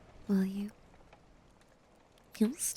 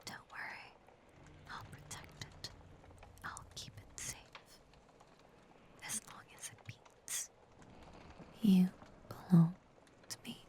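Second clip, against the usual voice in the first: possessive whisper; 10 dB quieter than usual. Acted. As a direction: whisper it like a secret over their heartbeat. Listening to the captive's heartbeat.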